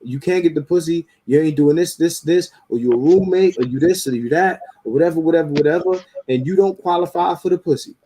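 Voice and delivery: mock the women laying out their terms; imitating women's demands. Man mimicking women listing their dating demands, mocking. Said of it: "They'll say".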